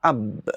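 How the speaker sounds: "अब" said with the B closed firmly on both lips; makhraj demo. Shown as a demonstration. Teacher shows students where the letter ba is sounded. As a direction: hold the lips shut on the B of "अब". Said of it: "तो आप कहेंगे".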